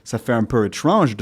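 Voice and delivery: French with an English-sounding melody; anglicized French vowels; English accent. Shown as a demonstration. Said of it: "j'utilise les sons de l'anglais".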